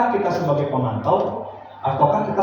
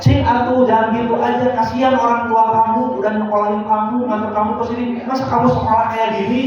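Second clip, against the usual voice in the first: guilt-tripping teacher; 4 semitones higher than usual. Retold or imitated. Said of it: "itu contoh pembuat rasa bersalah".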